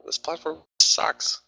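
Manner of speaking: high, loud and slow, dragging out platform; exasperated outburst. Real, not acted. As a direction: let the frustration burst out over the broken platform. Frustrated trader at his screen.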